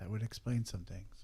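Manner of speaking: half-to-oneself spoken aside. A player speaks in character during a role-play scene: quietly, under the breath. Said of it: "I'll say quietly, kind of underneath my breath".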